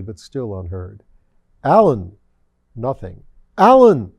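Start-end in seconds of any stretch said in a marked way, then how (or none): 1.6-2.2 loud shout of the name; calling out. A narrator's reading. Devil shouting to the bishop in the wind. 3.6-4.1 a howled, much higher and louder cry of the name; howling shout. A narrator's reading. Devil howling for the bishop through the tempest. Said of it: "His voice howled in the tempest wind".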